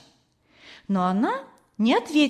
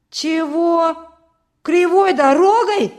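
high, loud outraged questions; outraged boy's shout, building on the repeated words; loud indignation; 8 semitones higher, 7 dB louder, slower than usual. A narrator's reading. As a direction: cry out in indignant disbelief. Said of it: "громко возмутился Петька".

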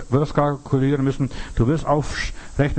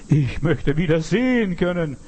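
imitated insistent plea, pitch raised; all-out plea; 5 semitones higher than usual. Blind man begs Jesus for his sight, insistent raised plea. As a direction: stake everything on the request, raised and emphatic. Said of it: "geht aufs Ganze".

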